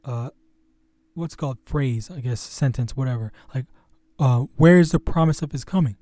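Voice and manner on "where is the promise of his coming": quoting the scoffer plainly; plain retelling. Retold or imitated. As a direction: repeat it in an even voice. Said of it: "this is a scoffing".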